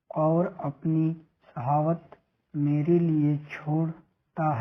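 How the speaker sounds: slow, deliberate reading of a sacred text; solemn, unhurried scripture reading; measured hadith recitation. Acted. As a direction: recite each phrase slowly with pauses. Reads a hadith aloud.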